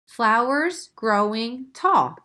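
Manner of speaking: slow, even poem reading; reading own haiku. Shown as a demonstration. Teacher rereads her haiku line. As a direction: say flowers growing tall slowly. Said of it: "How's that?".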